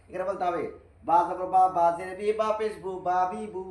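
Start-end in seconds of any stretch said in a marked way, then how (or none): 3.1-3.6 বা বি বু said short and run together; quick short syllables. Shown as a demonstration. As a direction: rattle off the syllables quickly, the correct way. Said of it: "তাড়াতাড়ি বা বি বু". (বা বি বু দ্রুত ছোট করে পড়া)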